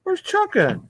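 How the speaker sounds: very high whiny wail; yelling across the room. Real, not acted. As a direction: wail like a lost toy owner. Searching, calling out.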